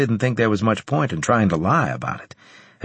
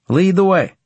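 resolute; 11 semitones higher, 6 dB louder than usual. Acted. McGill agrees to follow guard.

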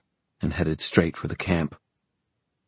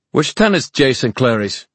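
raised, louder demand; 7 semitones higher, 6 dB louder than usual. Acted. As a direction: demand an answer from captives. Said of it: "he demanded".

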